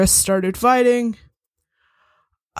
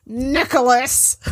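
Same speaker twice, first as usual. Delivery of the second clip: slow, louder shout of a name; loud call; 4 semitones higher, slower than usual. Acted. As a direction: call out to wake him. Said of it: "I'm like".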